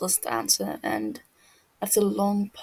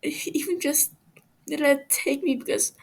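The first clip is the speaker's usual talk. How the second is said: higher, whispering, breaking into a broken laugh; haunted whispered recollection; 6 semitones higher than usual. Acted. Captive Fofo describes dying over and over, whispering and breaking. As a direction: relive the horror, voice cracking.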